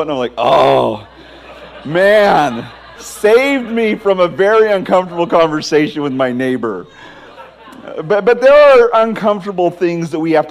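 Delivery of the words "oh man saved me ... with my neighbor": laughing relief. Real, not acted. Relief that friends wrote note.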